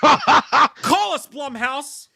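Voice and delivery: high, loud call-out; big hollered shout-out to a studio. Pretend. Calling out to the studio.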